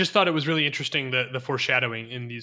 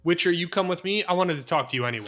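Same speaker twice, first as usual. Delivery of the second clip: higher-pitched scolding teacher; acted, commanding call to order; calming teacher tone; 4 semitones higher than usual. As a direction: settle the boys down like a teacher. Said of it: "Renfrey just uses this tone".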